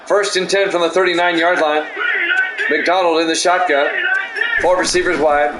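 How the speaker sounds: steady sportscaster call of each play. Acted. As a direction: call the drive like a broadcaster. Play-by-play of game.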